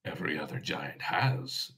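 Frost Giant voice. Acted. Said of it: "says the Frost Giant".

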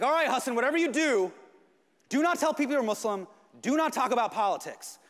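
a loud stern father laying down the rule; dad's warning. Retold or imitated. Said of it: "he's like".

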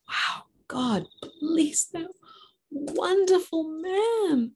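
high, drawn-out, overflowing praise; heartfelt gratitude. Acted. Wife praising Joseph, that wonderful man, with heartfelt gratitude. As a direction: gush slowly, pitched well up.

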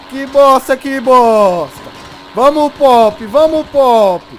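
frustrated yell. Real, not acted. Gamer urging his weak bike during chase, loud and frustrated. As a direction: push the bike on, exasperated and loud.

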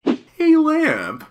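high loud call; shouting. Acted. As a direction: yell it across the room. Calling out loudly.

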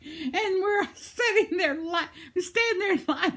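high, teary laugh through the words; real laughter breaking the voice; laugh-crying. Real, not acted. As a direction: laugh until it almost turns to tears. Laughing recounting shared laughter.

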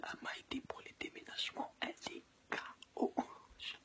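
soft unvoiced whisper; hushed so she won't wake. Real, not acted. Whispering near sleeping girlfriend.

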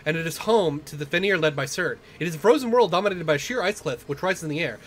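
lightly dramatic fantasy narrator; story narration. Acted. Player reading out the game's intro about the ice field, story narration. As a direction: read it out as epic scene-setting. Reads game narration aloud.

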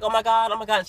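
high, loud, repeated starstruck exclaiming; fan freaking out. Retold or imitated. Panera worker meets someone she adores, freaking out. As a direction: mimic a fan losing it with excitement. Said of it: "She's freaking out and stuff".

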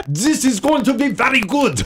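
badly faked Australian, high-pitched; botched Aussie accent that slides toward Austrian; terrible Australian accent. Audience woman to the singer on stage, terrible Australian accent. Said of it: "I do a terrible Australian accent".

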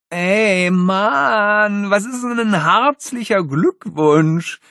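loud, high call across the picnic. Acted. Stuart calling from the picnic table. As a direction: shout the question across. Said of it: "rief Stuart vom Picknicktisch".

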